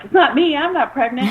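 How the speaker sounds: high, loud laughing denial; laughing protest. Retold or imitated. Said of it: "all of us girls are like".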